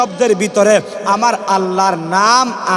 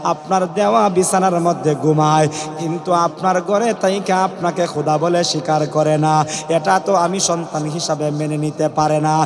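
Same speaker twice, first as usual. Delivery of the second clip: lightly acted weepy plea in sermon chant; mock tearful voice. Daughter complaining to Pharaoh about the maid, mock tearful chant. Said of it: "জড়িত কণ্ঠে গিয়া বাবাকে বলতেছে".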